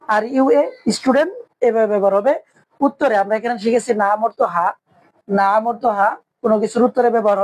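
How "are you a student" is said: each word drawn out slowly; slow model phrase. Shown as a demonstration. Teacher repeats the English question slowly for the class. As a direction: spell it out slowly for learners. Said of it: "হাল আনতা তিলমিজুন".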